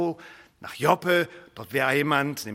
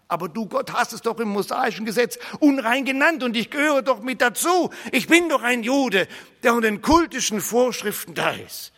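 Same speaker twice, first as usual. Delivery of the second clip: indignant objection; 5 semitones higher than usual. Acted. Peter protesting to God about the law, indignant. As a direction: argue back in disbelief.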